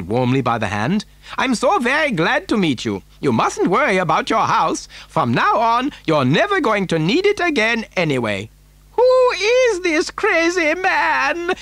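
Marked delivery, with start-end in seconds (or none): 1.4-8.5 higher, swooping eccentric factory owner's voice; animated storybook Mister Wonka. Acted. Factory owner explaining why he needs a child, animated. 8.9-11.5 very high, slow screech; old woman's scream. A narrator's reading. Grandmother reacting to the factory owner, outraged screech. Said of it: "screamed Grandma Josephine".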